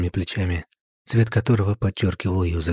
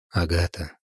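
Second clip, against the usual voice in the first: sighing. Acted. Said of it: "вздохнул он".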